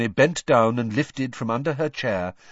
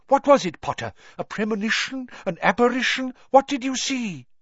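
eccentric seer voice; 4 dB louder than usual. A narrator's reading.

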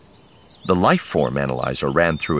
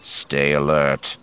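slow stern order; 3 semitones lower, much slower than usual. Acted. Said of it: "Covell ordered".

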